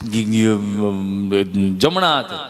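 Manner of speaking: slow low stammer; stammering patient. Retold or imitated. Scared patient stammering to the nurse, low and slow. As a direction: drag out a nervous stutter.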